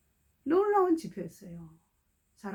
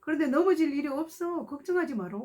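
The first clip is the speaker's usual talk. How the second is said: gentle comfort to a fearful daughter; preacher comforting a young woman; reassuring blessing; 4 semitones higher than usual. Retold or imitated. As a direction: reassure her she will not fall. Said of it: "이렇게 말해요".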